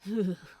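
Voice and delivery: cold shuddering exhale; shivery breath. Acted. Crowley shivers in the freezing dark. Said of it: "Crowley shivered violently".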